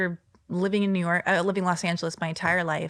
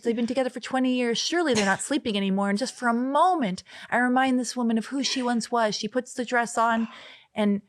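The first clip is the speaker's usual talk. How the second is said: mock-grand storyteller voice, a little higher; overwrought literary write-up; 4 semitones higher than usual. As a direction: read it like a self-serious novelist. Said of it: "And then they would turn into".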